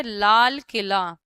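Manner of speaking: लाल किला drawn out slowly, each sound held apart. Shown as a demonstration. Teacher sounding out a word for students, slowly syllable by syllable. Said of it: "आ आएगा, ठीक है".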